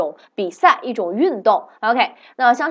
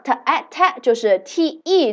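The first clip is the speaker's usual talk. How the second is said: spelling it out; 3 semitones higher, slower than usual. Shown as a demonstration. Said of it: "怎么拼呢".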